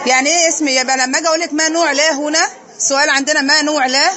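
normal talking voice

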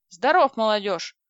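loud, cheery hello to the youngsters; tipsy old neighbour loudly greeting the young couple, hearty. A narrator's reading. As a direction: boom out a jolly welcome. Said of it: "бодро сказал дядь Дима".

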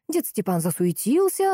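plain reading voice

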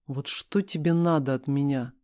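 ordinary delivery, nothing marked

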